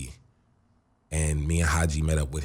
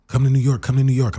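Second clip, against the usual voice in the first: eager invite; 7 semitones higher, 5 dB louder, faster than usual. Retold or imitated. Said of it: "this guy named Arthur's like".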